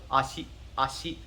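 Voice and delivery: "ashi" quick, little weight on the "a"; blurred first syllable. Shown as a demonstration. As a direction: rush into "ashi" without punching it. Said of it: "first syllable is almost kinda blurred in".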